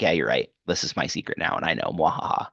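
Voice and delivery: low gloating villain with mwahaha; mad scientist. Retold or imitated. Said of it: "Riddler's like".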